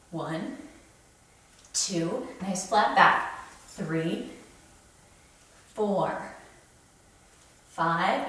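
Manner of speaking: effortful counting between heavy pulls; straining rep count. Real, not acted. Counting reps while lifting.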